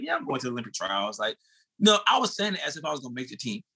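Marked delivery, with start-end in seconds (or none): 0.0-1.2 offhand, understated boast; casual. Retold or imitated. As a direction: toss it off like no big deal. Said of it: "used to say it so casually".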